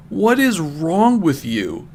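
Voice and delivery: slow, pressed mock anger; a hint of a furious boyfriend; mild yell. Knuckles yells at Rouge, a touch of mock rage. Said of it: "yelled Knuckles at Rouge".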